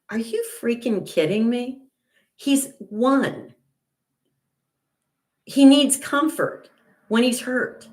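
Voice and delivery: high-pitched, incredulous retort; retold indignation. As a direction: protest in disbelief, pitch well up. Retold indignant retort to her son.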